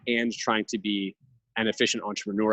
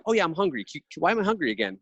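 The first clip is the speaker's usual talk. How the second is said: put-on higher, stammering little kid; child's voice; 7 semitones higher, faster than usual. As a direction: mimic a flustered child who forgot his snack. Dad voicing his forgetful child.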